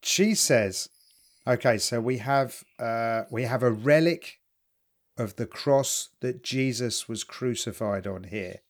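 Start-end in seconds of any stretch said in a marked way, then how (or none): 1.5-8.6 slow, low reverent presentation; solemn psychic lady. Retold or imitated. Psychic lady presenting the relic, lightly imitated solemnity. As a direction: lay it out slowly and gravely.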